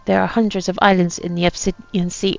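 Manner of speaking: put-on light pirate accent reading a captain's journal; lightly voiced pirate accent, a gruff old sea captain. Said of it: "you don't have to put up this accent anymore".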